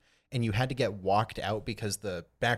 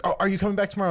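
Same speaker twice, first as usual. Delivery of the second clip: high, louder mock question; imitating anxious manager; 10 semitones higher, 6 dB louder, much faster than usual. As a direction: call it after someone leaving, pitched up. Voicing managers as he walks out.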